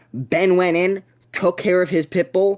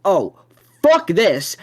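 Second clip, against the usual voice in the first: sudden panic, voice jumping up; a startled curse, rising and louder; alarmed outburst; 3 semitones higher, 4 dB louder, much slower than usual. Retold or imitated. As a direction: blurt it out as the dog breaks in. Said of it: "And I'm like".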